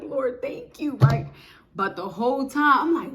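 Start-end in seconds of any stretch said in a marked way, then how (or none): 0.0-1.0 hushed whispered prayer; whispered thanks. Retold or imitated. Thanking God for the housing, whispered. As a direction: breathe it as a whisper.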